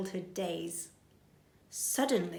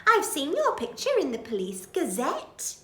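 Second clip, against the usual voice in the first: very high, giggling recognition; Betty, thrilled; 9 semitones higher, 4 dB louder than usual. Acted. Betty recognises Bill from a photo, giggling. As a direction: gush like a fan. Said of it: "says Burglar Betty".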